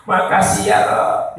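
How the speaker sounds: imitating choked, weepy thanks; mock sobbing gratitude to God; acted tearful prayer, voice breaking. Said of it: "Nangis saya, bersedih".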